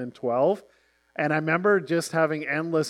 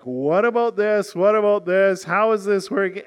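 louder, higher grilling; a reporter pressing hard, louder and higher; pushy reporter; 4 semitones higher, 5 dB louder than usual. Retold or imitated. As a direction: corner them with the question. Reporter voiced confronting them.

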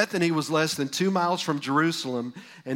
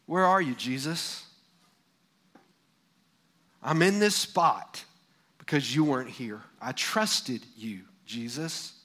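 grieving lament. Acted. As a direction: pour out a hurt, pleading complaint to Jesus. Martha's grieving lament acted out.

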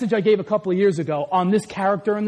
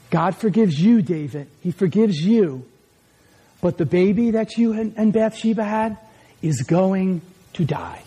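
gentle verdict; 5 semitones lower than usual. Retold or imitated. Prophet gently delivering verdict.

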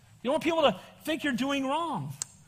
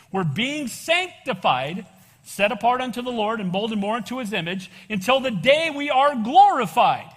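emotional church testimony; 4 dB louder than usual. Real, not acted. Preaching builds slow and loud.

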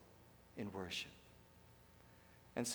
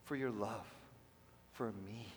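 reflective quiet prayer; 9 dB quieter than usual. Shown as a demonstration. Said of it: "just think about".

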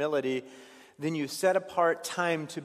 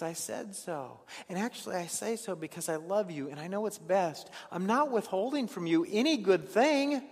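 tender God; 4 semitones higher than usual. Acted. God's reply, tender.

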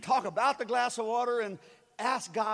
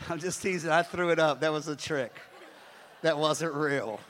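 laughing; 6 semitones lower than usual. Real, not acted. Pastor admitting his trick, laughing. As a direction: own up with a laugh.

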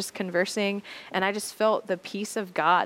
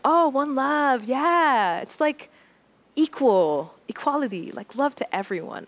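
higher, louder and slow, savoring it; Cece's voice; 6 semitones higher, 4 dB louder than usual. Retold or imitated. Cece explains one love in a higher, slower voice. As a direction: draw out her easy answer up high.

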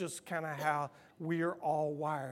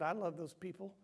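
soft voice of God; 7 dB quieter than usual. Retold or imitated. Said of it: "He just said".

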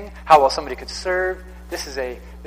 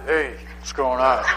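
mock macho greeting; 4 semitones lower than usual. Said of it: "the guys saying".

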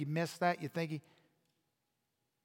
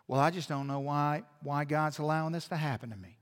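lower, softer mock sulk, pouting; pouty whine; 5 semitones lower, 5 dB quieter than usual. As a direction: imitate a sulky churchgoer, with a pout. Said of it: "sit there with your pouty face on and go".

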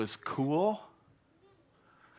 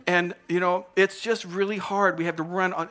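spokes mouse; 4 semitones higher than usual. Acted. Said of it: "picked a spokes mouse".

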